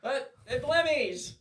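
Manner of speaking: very high, slow, soft squeak; squeaky silly voice. Pretend. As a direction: squeak it out like a cheeky cartoon. Playful retort after being scolded.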